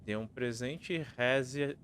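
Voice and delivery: riddle recited with lilting line ends; reading verse aloud. Acted. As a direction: read each line out clearly like a rhyme.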